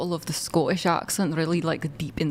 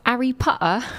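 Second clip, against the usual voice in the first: imitating a posh British "Harry Potter"; light British accent; 5 semitones higher than usual. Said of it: "British people be like".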